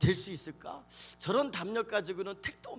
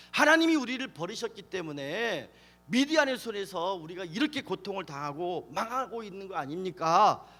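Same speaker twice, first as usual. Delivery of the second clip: acted resentful protest; 4 dB louder than usual. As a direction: demand an answer, louder at first. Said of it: "원망하면서 따지는". (원망하며 따지는 연기)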